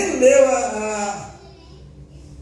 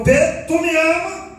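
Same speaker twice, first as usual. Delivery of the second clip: asked higher and insistent; higher, more insistent ask; second asking; 5 semitones higher than usual. Retold or imitated. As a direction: press the question again. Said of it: "pergunta pra ele de novo".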